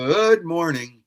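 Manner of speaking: hammed-up greeting. Repeated greetings, varied delivery.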